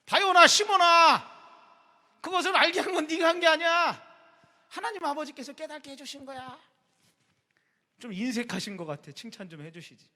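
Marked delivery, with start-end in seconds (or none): 0.1-6.6 solemn Jesus. Retold or imitated. Jesus answering Peter from the Bible, grave and loud. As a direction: proclaim it with grave authority. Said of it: "성경에 나오잖아".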